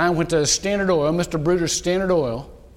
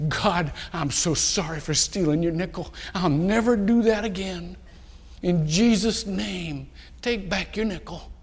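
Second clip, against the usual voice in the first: quivering prayer; 3 dB quieter than usual. Retold or imitated. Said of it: "and my voice was quivering".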